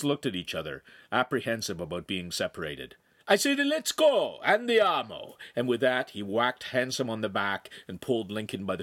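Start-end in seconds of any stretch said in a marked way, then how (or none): 3.3-5.4 loud, high order from the master; exasperated Italian boss; impatient command. A narrator's reading. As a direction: hurry them out with a raised, drawn-out call.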